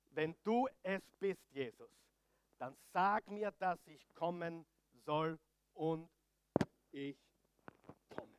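very soft, halting delivery; hushed. Acted. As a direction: let the voice sink almost to nothing, pausing between phrases. Acting out Peter's hushed understanding. (ganz leise und stockend)

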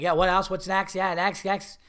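quick, repetitive counter patter; mimicked pushy sandwich guy; retold rushing. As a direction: hurry the line along with repeats. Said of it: "just one of these guys".

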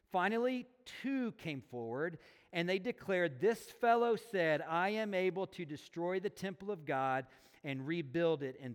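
measured Bible reading; scripture reading. A narrator's reading. Preacher reads the trial of Jesus to a congregation, measured scripture reading. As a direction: read the passage aloud with deliberate phrasing.

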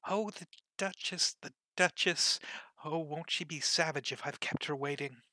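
high, flustered rabbit fretting to himself; high anxious rabbit voice; fretful White Rabbit. Acted. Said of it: "muttering to himself as he came".

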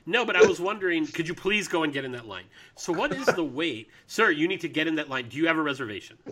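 playful mock interviewer and barker; snooty waiter. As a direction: ham up a pushy reporter. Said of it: "I can just walk up to her while we're recording".

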